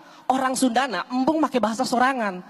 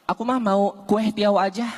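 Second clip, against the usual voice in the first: put-on girlfriend ordering; slower than usual. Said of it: "awewena ngomong kieu mesen".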